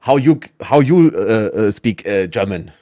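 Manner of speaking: put-on halting English in a German accent. Imitating Americans who mimic Germans, halting German-accented English. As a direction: imitate a German stumbling through English, with hesitations. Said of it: "deutschen Akzent nachmacht".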